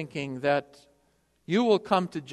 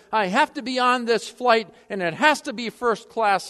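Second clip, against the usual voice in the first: insistent demand; 5 semitones higher, 3 dB louder than usual. Retold or imitated. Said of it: "he insisted".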